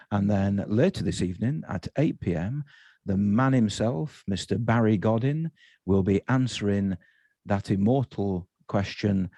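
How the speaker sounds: lightly done formal BBC announcer; a hint of Radio 4 continuity announcer, measured. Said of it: "in my best Radio four voice".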